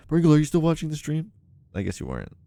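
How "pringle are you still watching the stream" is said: calling out. Retold or imitated. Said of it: "I yelled".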